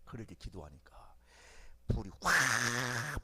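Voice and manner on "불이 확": ordinary talk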